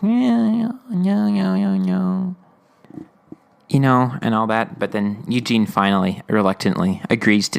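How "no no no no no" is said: high, frantic string of no's; imitating a panicked kid saying no; frantic refusal. Eugene refuses Katrina's begging.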